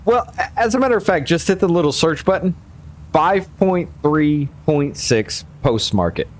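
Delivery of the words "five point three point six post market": "Five point three point six" spelled out slowly; slower, for note-taking. Shown as a demonstration. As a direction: read the numbers out slowly and clearly. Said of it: "you were too fast".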